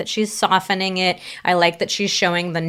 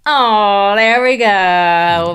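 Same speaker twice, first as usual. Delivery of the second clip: touched delight; 5 dB louder, much slower than usual. Real, not acted. Delighted reaction to loving reply.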